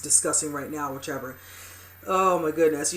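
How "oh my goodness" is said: loud, exasperated oh my goodness; exasperated exclamation. Real, not acted. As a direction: blurt it out in real frustration. Real reaction to a couple's fight.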